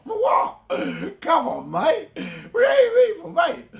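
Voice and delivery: shouted high and laughing, a cheeky taunt; high mock outcry. Speaking to his online haters, a high laughing mock shout. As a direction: throw it out like a playful challenge.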